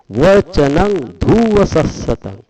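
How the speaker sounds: slow, measured verse reading; Pali recitation. Shown as a demonstration. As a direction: intone each Pali word deliberately.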